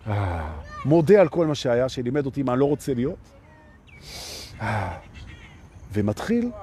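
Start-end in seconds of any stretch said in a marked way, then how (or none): 0.1-0.6 long low sighing exhale; breathing out. Shown as a demonstration. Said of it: "נושם". 4.6-5.0 low, sighing exhale; a slow release of breath, voiced low. Shown as a demonstration. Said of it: "נושם".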